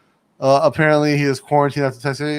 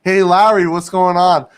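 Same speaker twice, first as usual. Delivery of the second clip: calling to a pet; 5 semitones higher, 5 dB louder than usual. Real, not acted. Greeting a pet loudly.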